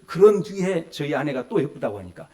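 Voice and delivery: ordinary talk, nothing marked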